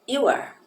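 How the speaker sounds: you are, said high and loud; clear English demo. Shown as a demonstration. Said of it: "falando das contrações e pronúncias".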